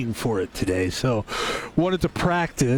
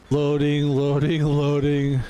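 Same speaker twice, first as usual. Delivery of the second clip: robotic loading; slower than usual. Pretend. Computer loading noise.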